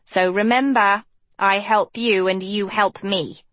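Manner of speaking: bargaining sidekick, eager; eager Hort voice. Acted. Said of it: "Hort beamed".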